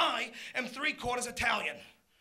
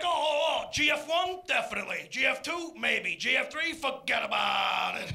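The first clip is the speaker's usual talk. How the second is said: retold pissed-off dad; 3 dB louder than usual. Old man ranking the Godfather films, mock indignant. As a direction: play the annoyed dad rating each film. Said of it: "he gets all pissed off at me".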